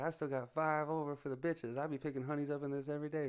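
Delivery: high imitation of a boasting buddy; high Tyson-like voice. Imitating buddy bragging about his new truck, high voice. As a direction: brag up high, Mike Tyson style. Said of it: "he had a high voice like Mike Tyson".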